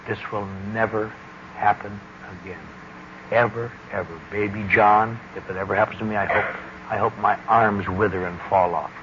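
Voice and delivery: low, earnest retold promise; sincere vow. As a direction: recall a heartfelt oath softly, pausing between words. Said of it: "I had tears of absolute sincerity".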